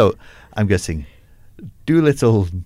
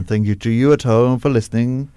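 put-on Robert Downey Junior Welsh accent. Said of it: "In the style of Robert Downey Junior doing his slightly Welsh accent".

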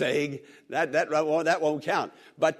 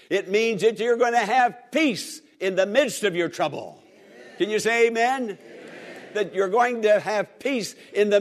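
laughing preacher; 3 semitones higher than usual. Real, not acted.

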